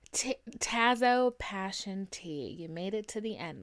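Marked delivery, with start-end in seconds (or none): 0.1-2.5 "Tazo" called out loud and slow. Shown as a demonstration. Host calling the code phrase to listeners, loud and slow. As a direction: stretch "Tazo" out, then drop for "passion tea". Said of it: "that's what we're saying".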